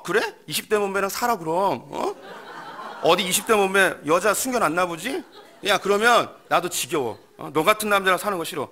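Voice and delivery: high, loud shouting tirade; furious wife. Acted. Wife screaming at her husband after the holiday, furious. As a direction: blow up and yell him down. Wife exploding in acted quarrel.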